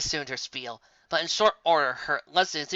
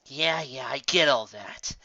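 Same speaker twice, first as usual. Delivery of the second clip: exasperated; slower than usual. Acted. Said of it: "sighed Raindrops with exasperation".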